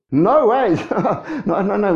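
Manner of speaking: lightly acted, amused burst of refusal; mock protest. Disciple objects to the Lord being killed, mock protest.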